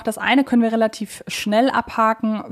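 ordinary delivery

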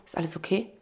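soft, low, caring "okay" rising; man asks her gently, softly caring; concerned question. Retold or imitated. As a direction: gently ask a stranger. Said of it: "es fällt ihm so alles so".

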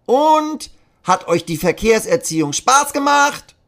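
very high, loud puppet voice; a squeaky Punch puppet addressing kids; Kasper puppet voice. Acted. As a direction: traffic puppet quizzing the children. Traffic puppet asks again.

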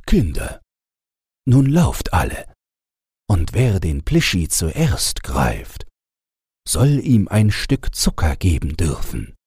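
put-on a father lightly calling the children, rising on the start; mildly voiced call to run off. A narrator's reading. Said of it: "so rief der Vater wohl". (leicht gerufen, wie ein Vater zu den Kindern)

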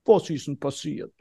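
soft, caring parent voice; concerned tender. Retold or imitated. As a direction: gently ask a sad child what happened. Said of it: "Mundwinkel nach unten". (besorgt und sanft, leiser)

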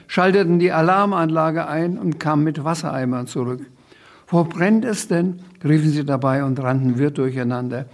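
put-on lively reading-aloud voice for a children's book; story narration. A narrator's reading. Author reading his children's book aloud, lively narration. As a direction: read the chaos scene with relish.

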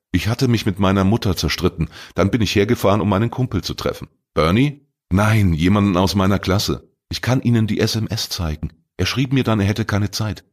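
put-on a defensive teen talking himself up; teenage boy Arne. Arne tells his story.

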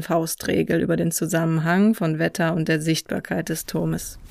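calm, even read travel narration; documentary voice-over. A narrator's reading. Hiker telling viewers about his walk, calm voice-over. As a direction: read it like a reflective travel film.

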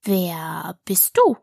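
slow, languishing drawl; slow caterpillar voice, words drawn out; languid caterpillar. A narrator's reading. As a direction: stretch each word out as if half asleep. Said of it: "mit schmachtender, langsamer Stimme".

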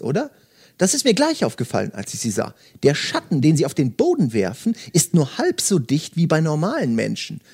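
steady audiobook narration with light character voices; story reading. Acted. Host reading Murakami to podcast listeners, calm narration. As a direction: read the novel passage aloud, calm and even. Reads novel aloud, resumes.

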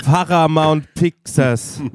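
slow reading aloud. Retold or imitated. Friend who reads every name aloud, slowly and loudly. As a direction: drag out each word, read it loud. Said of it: "Das liest er immer laut vor".

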